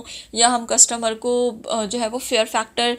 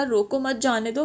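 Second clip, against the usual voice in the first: रोको मत run straight on into जाने दो; no pause after रोको. Shown as a demonstration. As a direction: keep मत tied to रोको, no comma pause. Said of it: "but the way I said".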